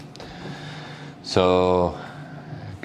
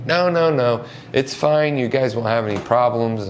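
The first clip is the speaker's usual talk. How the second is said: eager reassurance; 5 semitones higher than usual. Retold or imitated. Boss reassures the worried worker on the phone, higher and eager. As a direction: wave off the worry eagerly.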